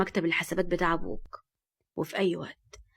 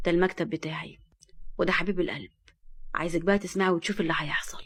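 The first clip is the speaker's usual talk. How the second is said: calm; 2 semitones lower than usual. Acted. Fahd calmly shows Nour his office, calm. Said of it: "وقال بهدوء".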